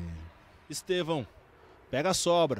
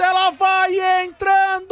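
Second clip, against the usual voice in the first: excited shout; 11 semitones higher, 6 dB louder than usual. Real, not acted. Cross going in.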